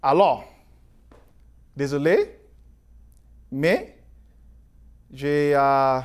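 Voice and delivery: halting French with an English accent; foreign accent in french. Real, not acted. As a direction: speak French as a non-native, searching for words. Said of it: "Mon français n'est pas très fort".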